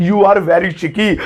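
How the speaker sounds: very slow, word by word; slow teaching read; slow model sentence. Shown as a demonstration. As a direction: say it slowly for learners. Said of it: "ऐसे ही बोल सकते हैं".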